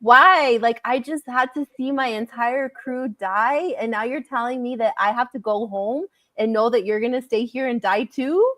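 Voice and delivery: mock upset, pleading for an explanation; retold upset protest. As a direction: act out a hurt, mad protest.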